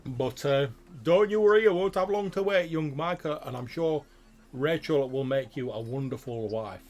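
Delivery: put-on jovial farmer reassuring the young groom; farmer father.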